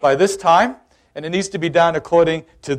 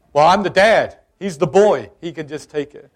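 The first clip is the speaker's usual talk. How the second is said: arguing back; 4 dB louder than usual. Retold or imitated.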